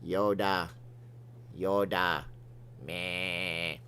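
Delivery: low, soft Yoda impression. Shown as a demonstration. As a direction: drop into a quiet Yoda croak. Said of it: "come on, do it".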